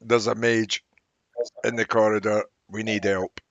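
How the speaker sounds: put-on loud Irish accent. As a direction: call for help in an Irish brogue. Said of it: "he says in an Irish accent".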